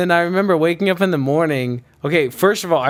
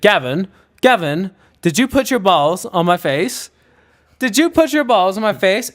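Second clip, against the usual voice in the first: insistent bad British accent, rising higher; terrible British accent; 4 semitones higher, 3 dB louder than usual. British pledge confronting Gavin, bad British accent. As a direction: interrogate in a badly faked British accent. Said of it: "This is my terrible British accent".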